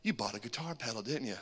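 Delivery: low, soft, knowing wife; wife quietly guessing his secret purchase, low and knowing. Retold or imitated. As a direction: quietly call his bluff.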